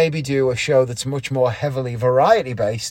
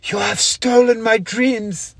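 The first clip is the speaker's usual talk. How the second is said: put-on high, slow, accusing young activist; Greta Thunberg impression; 9 semitones higher, slower than usual. Shown as a demonstration. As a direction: deliver it as a tearful accusation, slowly. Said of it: "I did an impression ... of, uh, Greta Thunberg".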